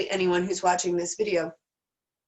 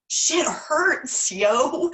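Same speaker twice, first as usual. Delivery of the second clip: emphatic outburst; 6 semitones higher, 6 dB louder, much slower than usual. Real, not acted. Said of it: "I've still got tears in my eyes".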